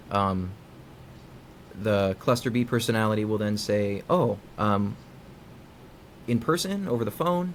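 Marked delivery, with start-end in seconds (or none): 4.1-7.5 innocent casual inquiry. Retold or imitated. Partner casually asking about work, mock innocent question. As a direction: ask it sweetly, as if merely curious. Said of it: "Just general inquiry".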